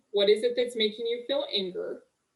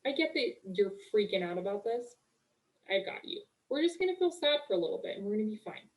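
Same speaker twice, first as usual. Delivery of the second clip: soft, hushed reassurance to her own brain; calm yourself down gently, almost under your breath; soothing self-talk; 6 dB quieter than usual. Retold or imitated. Speaker soothing her own panicking brain, soft and hushed.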